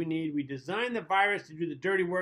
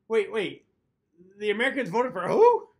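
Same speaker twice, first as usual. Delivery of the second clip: incredulous, rising to a loud WHO; mock shock at the result; disbelief; 2 semitones higher, 6 dB louder than usual. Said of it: "looking at each other saying".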